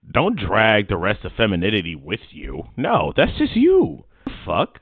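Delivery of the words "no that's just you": high, loud and drawn out; slow, high, loud call-out; slow emphatic call-out. Real, not acted. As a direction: hammer each word slowly. Heated rebuttal to co-host.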